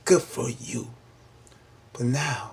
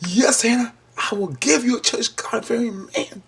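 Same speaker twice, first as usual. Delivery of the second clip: voice of God; 9 semitones higher than usual. Retold or imitated. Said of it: "And God said".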